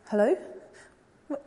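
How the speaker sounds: a wife begging down the phone, building to a desperate plea; acted distraught wife. Wife on the phone hearing her husband was shot, distraught pleading. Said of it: "And so I'm acting".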